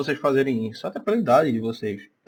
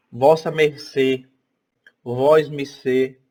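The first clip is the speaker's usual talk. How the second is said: put-on old forms spelled out; 3 dB louder, much slower than usual. Shown as a demonstration. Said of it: "por exemplo".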